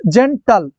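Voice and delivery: জেন্টাল split into জেন, টাল; two separate syllables. Shown as a demonstration. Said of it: "মানে two syllable".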